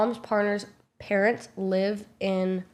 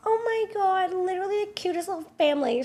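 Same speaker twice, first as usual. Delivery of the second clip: much higher, fast, gushing mock mom; gushing drunk mom; 10 semitones higher than usual. Narrator imitating her drunk mom gushing over the family, high squeal. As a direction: squeal it like a tipsy mom in awe.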